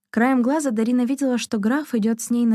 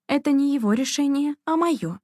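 higher, resolute correction; firm insistence in a raised pitch; 6 semitones higher than usual. A narrator's reading. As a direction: claim the decision firmly. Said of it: "твёрдо сказала Дарина".

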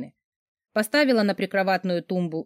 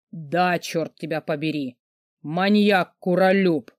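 louder, slow furious shout; angry yell; 3 dB louder, slower than usual. Acted. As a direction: bellow the insult at her. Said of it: "заорал Дмитрий".

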